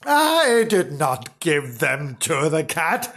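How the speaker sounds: slow, emphatic denial; mildly indignant husband; cross. Acted. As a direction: deny it crossly, word by word. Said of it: "said Mister Flange crossly".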